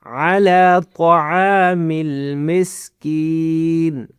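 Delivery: علی طعام المسکین chanted slowly, long vowel after the "ain"; stretched recitation. Shown as a demonstration. Teacher modelling the verse, علی طعام المسکین with held vowels. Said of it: "عین کو کھینچنا ہے".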